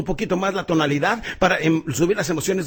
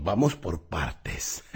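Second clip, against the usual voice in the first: remate lento; 8 semitones lower, 4 dB quieter, much slower than usual. Pretend. Chiste de Jack el Destripador.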